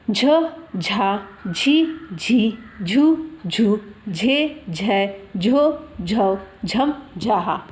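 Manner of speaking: measured recitation in separate syllables; syllable drill. Shown as a demonstration. Teacher shows how matras are pronounced, measured syllable drill. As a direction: sound out each syllable for learners. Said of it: "उस तरह से उच्चारण उसका आता है".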